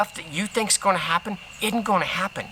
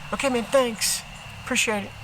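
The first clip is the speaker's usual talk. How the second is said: breezy cashier; 6 semitones higher than usual. Retold or imitated. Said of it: "cash register guy is just like".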